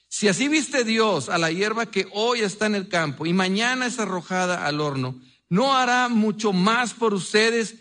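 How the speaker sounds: measured, earnest Bible reading with rising questions; a pastor reads Scripture to his church, solemn and steady. Acted. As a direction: read the Sermon on the Mount to the congregation, slowing on the key lines. Reads Matthew passage aloud.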